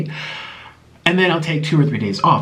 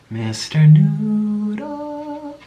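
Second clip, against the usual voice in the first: sing-song pet voice; 8 semitones higher, much slower than usual. Pretend. Teasing the pet sloth.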